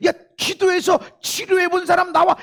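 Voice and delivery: high, loud calling-out; mock roll-call shout; loud summons. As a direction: call them forward at full voice. Acts out the Lord summoning people.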